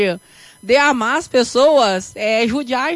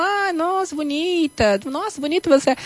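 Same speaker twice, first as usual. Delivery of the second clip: mock fake praise; 3 semitones higher, 5 dB quieter than usual. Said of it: "eu falo".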